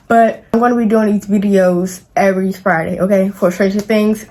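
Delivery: talking around a retainer; words slurred by a retainer; wearing a retainer. Real, not acted. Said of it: "I can't really talk".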